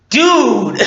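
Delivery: high-pitched mock-appalled cry; appalled exclamation. Fan reacting to Kylo Ren's tantrum, appalled. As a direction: exclaim in exaggerated disbelief.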